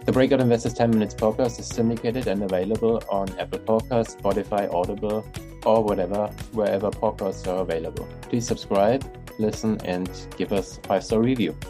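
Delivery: upbeat host reading the sign-off; podcast outro read. Acted. Podcast outro over music.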